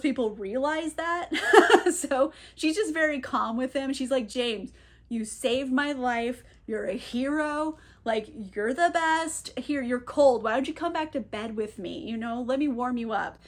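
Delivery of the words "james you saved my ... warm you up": gentle. Retold or imitated. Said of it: "being very gentle with him".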